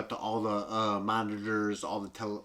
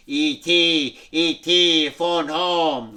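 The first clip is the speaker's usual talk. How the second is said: a touch louder, lightly voiced alien; 4 semitones higher, 7 dB louder, much slower than usual. ET reviving, speaking to Elliot in a light alien voice. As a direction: call out gently as the alien.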